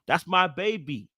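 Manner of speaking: stretched-out fan cheer; proud cheering. Acted. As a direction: gush slowly over your partner. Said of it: "be able to scream and say".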